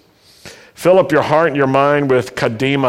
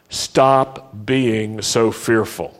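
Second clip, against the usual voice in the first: slow and measured; 4 semitones lower, much slower than usual. Shown as a demonstration. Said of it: "Say that with me".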